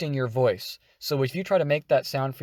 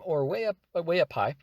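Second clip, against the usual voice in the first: way up high; 4 semitones higher than usual. Shown as a demonstration. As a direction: pitch climbing upward. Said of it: "You want your robot to sound low".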